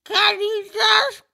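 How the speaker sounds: fed-up, laughing frustration; exasperated. Acted. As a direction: snap at them to hurry up. Exasperated skeleton losing bits.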